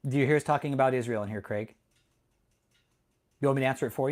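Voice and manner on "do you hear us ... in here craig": quick pointed question. Shown as a demonstration. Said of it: "start asking honest questions".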